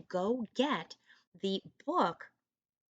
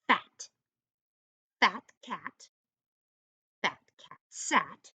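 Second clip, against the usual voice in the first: slow read-aloud; slower than usual. Shown as a demonstration. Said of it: "I'm gonna read it one more time".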